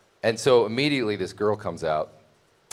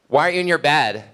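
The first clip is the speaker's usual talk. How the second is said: surprised question; 6 semitones higher, 4 dB louder, faster than usual. Retold or imitated. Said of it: "She's like".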